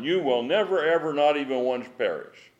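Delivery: "never, ever" stressed high and firm; emphatic. Shown as a demonstration. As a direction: press hard on "not even once". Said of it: "that emphatic is so key".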